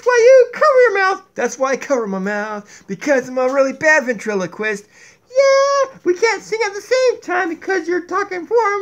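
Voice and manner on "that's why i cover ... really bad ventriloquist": low puppet voice. Acted. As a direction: lower second puppet voice.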